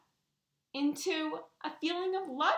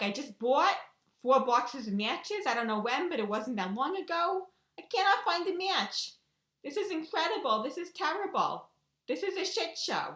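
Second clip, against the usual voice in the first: frustrated rant; 2 semitones higher than usual. Retold or imitated. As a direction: replay your fed-up rant at the missing matches. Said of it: "I'm getting all mad".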